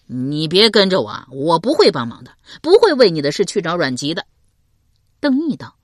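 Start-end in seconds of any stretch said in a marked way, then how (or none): 0.0-4.3 更响亮的警告男声; 大声把话说死; 刘伶警告. Acted. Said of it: "刘伶警告说". (刘伶大声警告邓毅别跟着)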